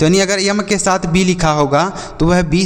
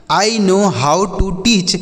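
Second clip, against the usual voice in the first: slow model sentence; 3 semitones higher, much slower than usual. Shown as a demonstration.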